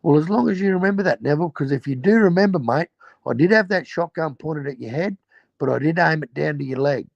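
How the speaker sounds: high, fast mock gangster threat; Chopper. Chopper reminding Neville of the shotgun, high fast mock menace. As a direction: rattle it off high like a smug crook. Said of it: "He goes".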